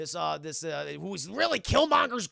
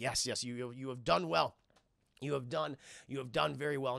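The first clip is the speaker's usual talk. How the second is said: a hint of a solemn elder, lower and softer; lightly voiced elder; 5 semitones lower, 4 dB quieter than usual. Zuri praising the new king, lightly voiced low elder. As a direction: lightly play an approving mentor.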